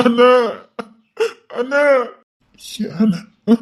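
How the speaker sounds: breathy whisper, pained; whispering to his brother; whispered plea. Acted. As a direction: ask in a hushed, hurt whisper.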